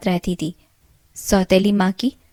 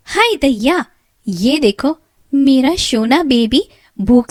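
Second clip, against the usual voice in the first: higher, louder dramatic scolding; loud melodramatic stepmother; fussing, scolding stepmother; 4 semitones higher, 5 dB louder than usual. Acted. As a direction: fuss over her baby, then bark at Meena. Stepmother fusses then scolds Meena.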